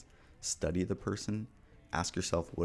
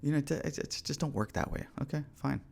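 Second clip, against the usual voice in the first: high, mocking voice of someone making excuses; whiny excuse-maker; 8 semitones higher than usual. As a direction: mimic a lazy excuse-maker, pitched up.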